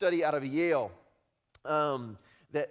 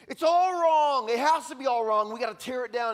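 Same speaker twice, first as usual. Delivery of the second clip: loud, high outraged cry; angry protester; 9 semitones higher, 10 dB louder than usual. Retold or imitated. Preacher mimics the angry camp, loud outrage. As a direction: shout it like a furious protester. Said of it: "they say".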